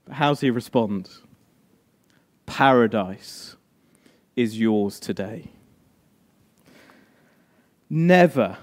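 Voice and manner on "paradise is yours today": a hushed, tender assurance; slow, low gentle promise. Acted. Jesus answering the dying criminal, slow and tender.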